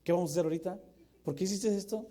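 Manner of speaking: put-on nagging like a curious kid; whiny kid.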